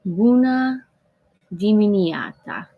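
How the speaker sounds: attempting Romanian greeting with Italian-French flair; mock Italian-French accent. Shown as a demonstration. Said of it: "someone who speaks fluent Romanian".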